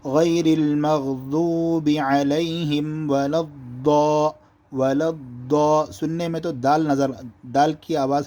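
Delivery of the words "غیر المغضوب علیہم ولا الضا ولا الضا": slow Quranic recitation, الضا thick and rounded; heavy-ضاد recitation. Shown as a demonstration. Teacher quoting Surah Fatiha, slow recitation with heavy الضا. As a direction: recite slowly, drawing out vowels, الضا full. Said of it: "جس طریقے پر سورہ فاتحہ میں".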